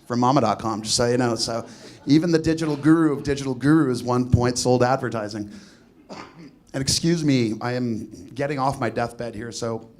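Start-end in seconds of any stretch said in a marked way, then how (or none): 6.1-9.9 rattly chesty voice, sick with a cold; phlegmy voice. Real, not acted. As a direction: talk through a phlegmy chest. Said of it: "if I sound a little phlegmy".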